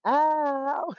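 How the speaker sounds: high squealed ow in a put-on girl voice; shorties' ow. Mimicking the girls in the booth, high squealed ow. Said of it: "They in the booth like".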